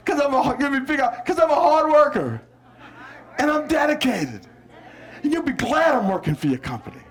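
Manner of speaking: smiling job-seeker pitch. Shown as a demonstration. Applicant selling self as a hard worker, smiling. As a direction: say it through a big smile. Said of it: "Now everybody smile. Say".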